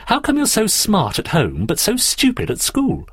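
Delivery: high-pitched, incredulous challenge; challenging question. Acted. Daphne challenges Andrew about doing badly at school, incredulous. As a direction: ask it as a pointed, puzzled dig. Puzzled girl challenges boy.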